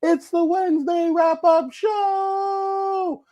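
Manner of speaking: high, slow, polished corporate host; CEO Paul voice. Pretend. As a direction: announce it like a smooth corporate CEO. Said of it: "we gotta do it in the C E O Paul voice".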